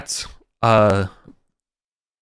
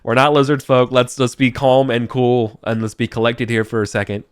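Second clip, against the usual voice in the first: mock calming; 3 semitones higher, 4 dB louder than usual. NPC trying to calm others.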